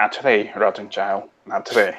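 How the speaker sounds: muttered half-whisper under the breath. Approaching a sleeping companion, glancing at Eleanor smiling: half-whisper to himself. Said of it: "just kinda whisper to myself".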